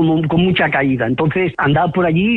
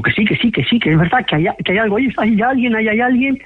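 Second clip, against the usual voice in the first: pitched-up, urgent mock protest; retold frightened insistence; 5 semitones higher than usual. Scared cousins insist someone is there, retold frightened insistence. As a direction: imitate someone scared and insisting, climbing higher. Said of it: "se pusieron a gritar, asustadas".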